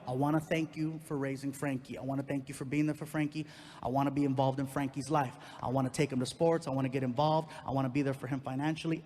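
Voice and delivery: lightly voiced man's earnest email; email read aloud. Reading out the ex's email.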